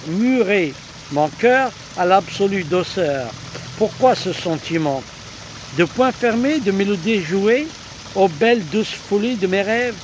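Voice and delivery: lyrical love-poem recitation; poetry reading. Acted. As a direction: read it as verse, lifting the questions. Reads a love poem aloud.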